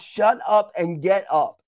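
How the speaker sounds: firm retold command, punched out; stern. Holy Spirit to a preacher pitying themself, stern. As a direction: deliver it as a brisk, firm order. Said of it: "spoke even more sternly to me that time".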